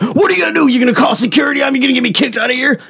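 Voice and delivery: hammed-up Alex Jones taunting Rubio; mock taunting yell. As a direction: goad him like a heckler spoiling for a fight.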